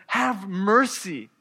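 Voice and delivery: slow, drawn-out mock plea; understated cry for mercy; retold calling out. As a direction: imitate calling out, mildly. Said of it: "They called out to him and said".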